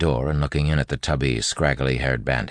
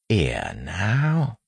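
put-on bandit's street accent, slightly raised pitch; soft bandit accent; 6 semitones higher than usual. A narrator's reading. Wayne leaning in to the bandit, soft bandit street accent. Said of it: "very softly, changing his speech".

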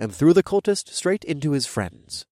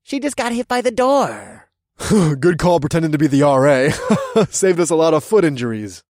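mocking laughter; 4 semitones higher, 6 dB louder than usual.

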